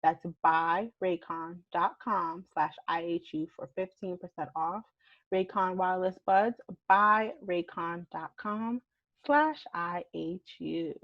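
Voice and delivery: upbeat podcast sponsor read. Acted. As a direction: sell the earbuds like a host ad.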